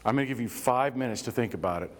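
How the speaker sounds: low, even, measured reassurance; calm de-escalation. Acted. Stepping back from someone yelling, calmly offering five minutes.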